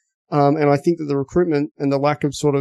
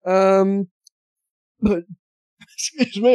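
choking and coughing mid-sentence; fighting a cough; 4 semitones higher, slower than usual. Real, not acted. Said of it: "I'm choking to death".

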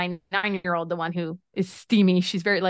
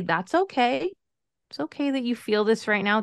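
soothing parent; 3 semitones higher than usual. Shown as a demonstration. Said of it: "just say".

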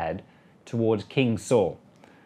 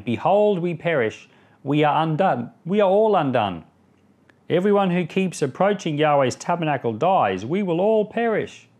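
fearful outcry; 5 semitones higher, 4 dB louder than usual. A narrator's reading. Israelites' cry quoted from scripture.

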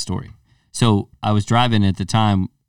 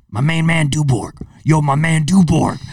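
high-pitched mock holler of a friend; imitated hollered greeting; 5 semitones higher than usual. Storyteller imitating his friend hailing him mid-fight, high hollered greeting. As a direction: imitate a buddy calling out your surname, pitched up. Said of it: "Like this".

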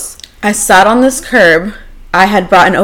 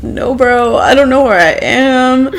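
mock drunken whine; 4 semitones higher than usual. Retold drunk call to ex.

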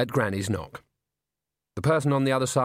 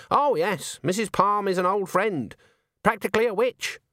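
put-on prim old witch; 9 semitones higher than usual. A narrator's reading. Voices Granny.

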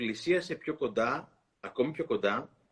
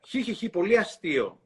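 hyena giggle; 5 semitones higher than usual. Acted. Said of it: "έκανε η Ιένα".

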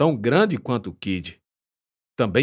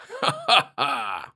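short laugh; 5 semitones higher than usual. Acted. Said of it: "responde abrindo um sorriso".

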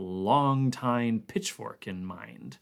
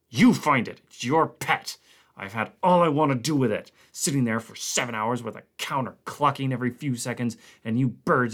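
angry refusal; 3 dB louder than usual. Acted. Connant refusing angrily.

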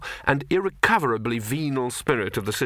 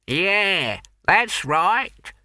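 put-on elderly man; 8 semitones higher, 3 dB louder, much slower than usual.

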